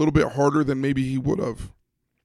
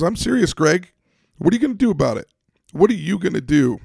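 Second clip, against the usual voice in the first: higher, louder mock confrontation; perturbed challenge; 6 semitones higher, 5 dB louder than usual. Teammates trading a heated challenge at practice, perturbed and loud. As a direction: push back hard, pitched high and loud. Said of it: "He goes".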